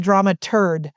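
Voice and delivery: "dramaturd", ending like "turd" with a D; misheard word. Retold or imitated. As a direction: say "dramaturd" with a final D. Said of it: "my son thought we said".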